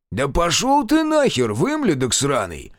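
high loud spat curse; angry curse. Acted. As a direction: spit the curse out. Old man curses intruder.

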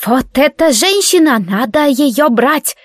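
high, grating bandit voice; nasty creaky voice of a bandit. Acted. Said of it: "заговорил противным скрипучим голосом".

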